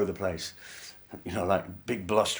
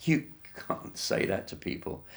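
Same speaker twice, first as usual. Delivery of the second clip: spluttered under breath; 4 semitones higher, 5 dB quieter than usual. Retold or imitated. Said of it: "spluttering to myself".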